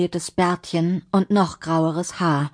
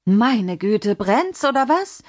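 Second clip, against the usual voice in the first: higher, rising exasperated question; 5 semitones higher, slower than usual. Acted. Mimi hurrying to the furiously ringing door, exasperated. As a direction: grumble in exasperation at the impatient ringing.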